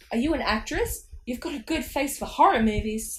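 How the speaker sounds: loud mocking dummy voice; Slappy's shout. A narrator's reading. Dummy insulting Mum, shouted. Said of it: "Slappy shouted at her".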